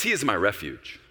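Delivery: confident start swelling to a loud, high cry; building, ringing boast of trust in God; proud, shoulders-back declaration. Acted. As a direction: proclaim it like King David, drawing out the key words. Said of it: "I think he kind of pins his shoulders back".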